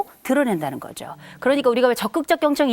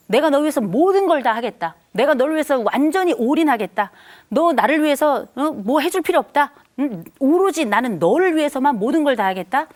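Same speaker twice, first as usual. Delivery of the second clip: devoted parent; 4 semitones higher than usual. Acted. Lecturer voicing a parent who promises everything, lightly raised. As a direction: play the all-giving parent pledging everything.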